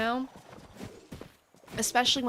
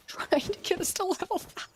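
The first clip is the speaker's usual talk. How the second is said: breathless whisper; 9 semitones higher than usual. Real, not acted. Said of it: "working my tail off".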